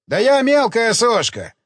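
carefree. Acted. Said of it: "беспечно махнул рукой".

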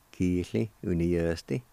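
"Kiisli, Uniasti" as two joined words; whole-word pronunciation. Shown as a demonstration. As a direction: model "Kiisli, Uniasti" without syllable breaks. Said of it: "pronounce these words one more time".

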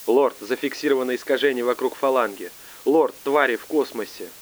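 urgent panic over comms; panicked. Acted.

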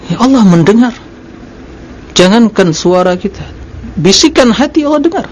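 high, insistent sermon delivery; emphatic preaching. Real, not acted. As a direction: drive the point home in a high, ringing preacher's pitch. Preaches with rhetorical questions and answers.

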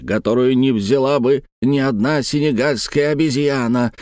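indignant outburst, broken into phrases; broken, furious phrases. Acted. Uncle refusing the marriage demanded of him, haltingly indignant. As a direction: spit out the grievance with mild rage. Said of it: "разрубая с какой-то яростью каждую фразу".

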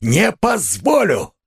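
screaming in fury; furious shout. Acted. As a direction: rage at him full force. Raskolnikov's continued outburst.

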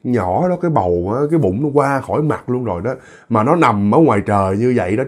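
low, hushed neighborly concern; gentle deep-voiced woman. Low-voiced woman worrying over a sleeping pregnant woman, gentle and deep. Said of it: "Cái giọng trầm mới nói nè".

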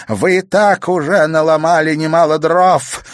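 freeze them with a threat; hissed threat. Acted. Grandmother threatening with knife.

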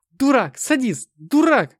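shrill-free loud high screams; screaming. A narrator's reading. Anna screams at the hero, loud and high. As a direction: scream the insults in fear and rage. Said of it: "кричала она".

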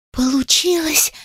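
high joyful cry; rejoicing. A narrator's reading. Fairies cheer that it worked. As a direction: cheer the success. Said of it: "ликовали феи".

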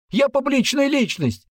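high and loud, puffed-up outrage; teen boasting of followers to soldiers; indignant shout. Acted. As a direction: yell your self-importance.

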